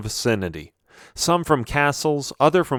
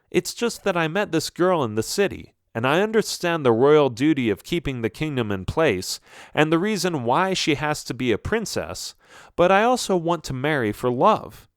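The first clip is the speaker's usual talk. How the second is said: a slightly higher, pleading son; lightly voiced earnest prince; 5 semitones higher than usual. Prince confesses love to his father, earnest and lightly voiced. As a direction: lightly play a prince explaining himself.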